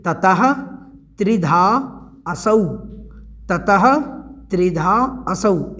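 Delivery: ततः, त्रिधा, असौ each set apart with pauses; split word by word. Shown as a demonstration. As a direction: break ततस्त्रिधासौ into separate words. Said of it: "संधि का विच्छेद करेंगे". (संधि विच्छेद, रुक-रुक कर)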